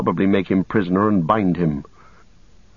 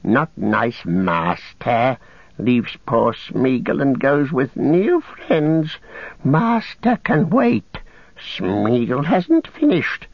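slow, high whining creature; wheedling, hurt little creature; Gollum's creature voice; 5 semitones higher, much slower than usual. Acted. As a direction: drag the words out in a rising sulk. Gollum sulks and refuses.

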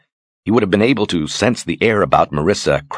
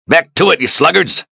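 much higher, loud bellow at the crew; captain's shout; 12 semitones higher, 4 dB louder than usual. Acted. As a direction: roar at the lazy sailors. Captain yells at his crew.

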